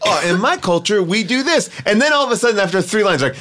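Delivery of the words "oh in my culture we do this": lightly imitated reply at normal pace; quick, easy echo in a quoted exchange; Jackie Chan. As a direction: echo the line back conversationally. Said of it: "And then Jackie's like".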